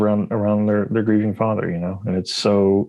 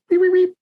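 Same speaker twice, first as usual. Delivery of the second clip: very high chirpy beeping; squeaky beep beep beep; high mock beeps; 3 dB louder, faster than usual. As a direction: beep like a tiny creature. Voicing the Muppet's beeps.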